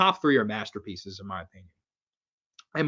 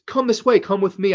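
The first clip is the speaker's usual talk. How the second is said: a higher, louder lightly voiced child luring them; creepy kid inviting; 7 semitones higher, 5 dB louder than usual. Retelling the movie kid's invitation, lightly voiced. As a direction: lure them in like a film child. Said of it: "And the kid says".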